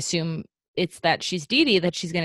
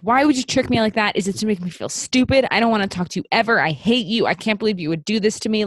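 put-on upset teen outburst; faster than usual. Daughter turning on mom after being tricked, upset. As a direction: rush through a hurt, accusing rant. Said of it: "she's so upset".

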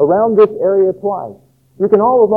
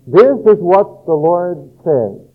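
slow, weighty reading of the verse; solemn scripture reading; slower than usual. Shown as a demonstration. Pastor reading the prophet's words to the congregation, slow and solemn. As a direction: read it out slowly like holy writ. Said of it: "and it reads this way".

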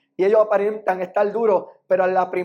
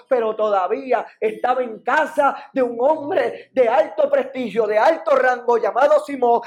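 rising, insistent rhetorical questions, easing at the very end; impassioned preaching; 4 semitones higher than usual. Real, not acted. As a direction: preach it building higher to a climax. Predica subiendo hasta el clímax. (prédica apasionada que va subiendo)

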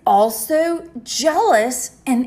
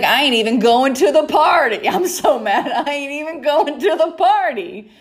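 sulky brother; 5 semitones higher than usual. Retold or imitated. Voicing sulking older brother.

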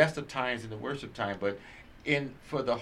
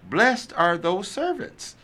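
scripture reading. Acted. Reader giving Luke twelve to responsive listeners, emphatic scripture reading. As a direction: proclaim each phrase deliberately, stretching key words.

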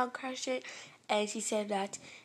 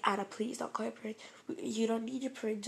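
hushed pleading; 5 dB quieter than usual. Retold or imitated. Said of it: "the principal was like".

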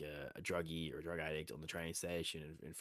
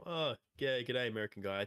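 mild Aussie; 3 semitones higher than usual. Retold or imitated. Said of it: "I'm not gonna go from".

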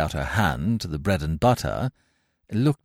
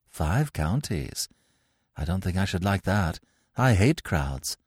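disdainful. Acted. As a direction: sniff at the idea. Gwendolen's disdainful reply.

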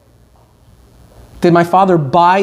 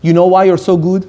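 blunt question with a slight lift at the end. Retold or imitated. Father's acquaintance approaches the speaker after the program, blunt question. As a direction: put it to them bluntly. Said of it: "like, very bluntly, very bluntly".

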